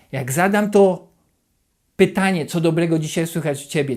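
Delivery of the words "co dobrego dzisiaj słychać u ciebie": lightly ironic question, a touch mocking; said to a friend, faintly sarcastic. Shown as a demonstration. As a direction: ask it as if you doubt any good news. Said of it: "tak ironicznie".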